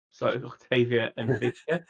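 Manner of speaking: laughing through a corrected slip; laughing correction. Real, not acted. Correcting a flubbed name to the table, laughing. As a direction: giggle out the fixed names.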